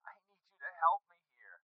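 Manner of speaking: high, soft desperate plea; distressed caller asking for help; pleading. Acted.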